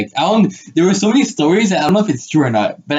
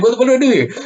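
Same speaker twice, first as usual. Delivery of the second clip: high-pitched retold fluster; mock panic; 9 semitones higher, faster than usual. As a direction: replay being at a loss, pitched up. Retelling panic as girl cries.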